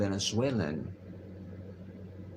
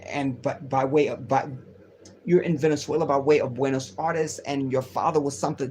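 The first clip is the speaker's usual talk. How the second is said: imitating the Palestinian woman. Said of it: "this is how she speaks".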